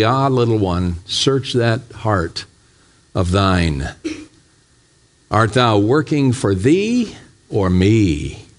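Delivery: slow, gentle voice of God; the Lord gently answers his servant, tender and slow. Acted. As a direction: answer the child tenderly, unhurried. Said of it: "He answered me tenderly".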